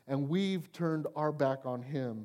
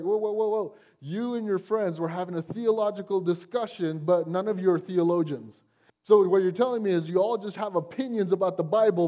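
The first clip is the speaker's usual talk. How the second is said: incredulous pushback. Retold or imitated. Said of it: "I was like".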